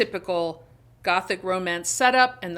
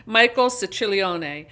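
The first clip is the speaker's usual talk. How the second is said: the name said in an Italian way; Italian pronunciation; 4 dB louder than usual. Shown as a demonstration. Book reviewer trying the author's surname, Italian pronunciation. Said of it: "try to pronounce this in the Italian way".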